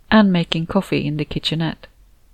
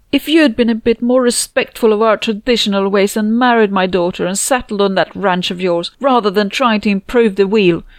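loud, higher, accusing rant; 4 semitones higher, 4 dB louder than usual. Retold or imitated. Constanza blaming Felipe at the hospital, loud furious rant. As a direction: tear into him for breaking tradition. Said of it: "ranting before security could be called".

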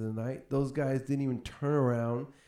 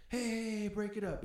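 mock a cousin stepping in, voice pitched way up; imitated intervening cousin; 10 semitones higher, 5 dB quieter than usual. Cousin runs over to break up the fight, high imitated call.

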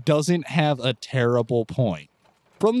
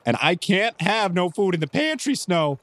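higher, nervous protest; really nervous; 5 semitones higher than usual. Acted. Clyde to Snow about an empty pantry, really nervous. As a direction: fret anxiously at the very thought. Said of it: "Clyde gets really nervous as soon as Wilson suggests".

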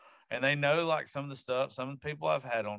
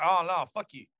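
bratty daughter; 5 semitones higher, 7 dB louder than usual. Retold or imitated. Daughter quoted loud.

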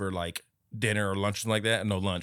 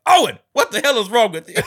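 higher and louder, laughing through it; a dad snapping at his son, half laughing; mock outraged dad; 13 semitones higher, 11 dB louder than usual. A TV dad turning on his son, a laughing mock yell. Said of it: "Owen's dad is like".

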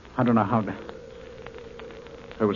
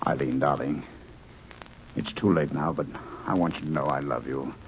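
tender farewell; 6 semitones lower, 6 dB quieter than usual. Acted. Farewell to his love before death.

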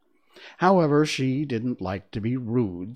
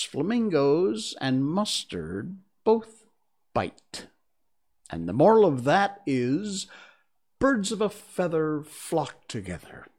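put-on lecturing old duchess; frail withering duchess; 6 semitones higher, 3 dB louder than usual. Duchess giving a moral.

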